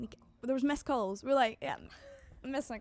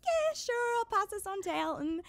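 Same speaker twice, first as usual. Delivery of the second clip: lightly voiced man, pitched up; breezy friendly yes, a touch higher; David Furnish voice; 10 semitones higher than usual. Recalling David Furnish, a light pitched-up friendly yes.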